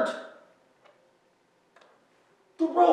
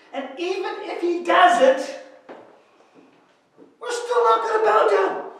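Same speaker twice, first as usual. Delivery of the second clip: Shadrach's firm defiance. Acted. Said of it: "Shadrach goes".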